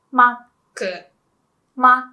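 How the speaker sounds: "Mac" as makku, with a stop before ku; Japanese short form. Shown as a demonstration. Teacher showing the Kanto nickname, split syllables. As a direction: say "Mac" in two beats, mak-ku. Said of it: "a lot of people call".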